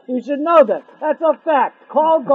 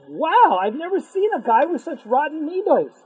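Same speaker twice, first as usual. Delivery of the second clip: shocked; 5 semitones higher than usual. Retold or imitated. Rabbi seeing a man with rotten midos, shocked. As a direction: act out the rabbi taken aback. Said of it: "he was shocked".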